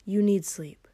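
hushed, coaxing the lover to rest. Acted. Lover coaxing his partner to sleep, whispered. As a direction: whisper it close against his skin.

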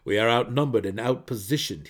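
grim and loud report; bad news, stated heavily. A narrator's reading. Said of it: "his face grim".

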